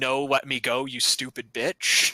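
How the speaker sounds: usual speaking voice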